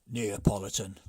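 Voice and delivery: loud low bark; the chief barks his order; gruff chief demand. Acted. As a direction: chief booms his choice.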